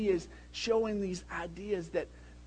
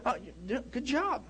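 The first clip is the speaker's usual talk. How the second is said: soft, higher sing-song praise; mock soothing praise; 6 semitones higher, 7 dB quieter than usual. Son imitating dad's calm praise during driving, soft mock encouragement. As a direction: praise the driver in a gentle coaxing voice. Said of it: "impersonation of me".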